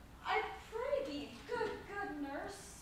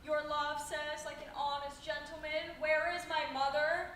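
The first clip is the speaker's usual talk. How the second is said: mimicking the nurse. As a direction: repeat her words back in mockery. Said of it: "How oddly thou repliest".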